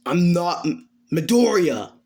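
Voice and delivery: emphatic, mildly hammed-up denial; indignant correction. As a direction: insist on it, irritated. Bolt angrily rejects his old name.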